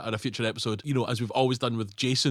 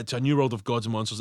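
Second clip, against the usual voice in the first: evil guy quote; 5 semitones lower than usual. Retold or imitated. Repeating Pretorius's toast, low and sinister. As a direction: murmur it like a mad scientist.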